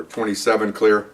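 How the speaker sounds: slow, matter-of-fact radio call; officer radioing in. Retold or imitated. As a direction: report in slowly over the radio. Acts car clearing over radio.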